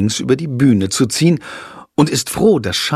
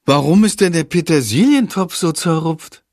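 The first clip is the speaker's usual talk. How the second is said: puzzled; 6 semitones higher than usual. Acted. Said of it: "fragt sie sich".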